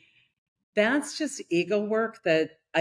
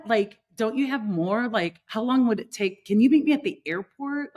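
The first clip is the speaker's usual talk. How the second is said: desperate pleading; 5 semitones higher than usual. Retold or imitated. Tourist to the vendor, pleading frantically for another bracelet. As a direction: chase the vendor with mock panic.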